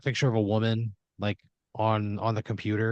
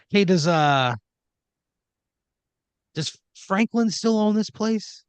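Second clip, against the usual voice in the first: high, slow, drawn-out question; slow knowing question; 9 semitones higher, 3 dB louder, slower than usual. Acted. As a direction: ask it like you already know. Paulie's slow loaded question.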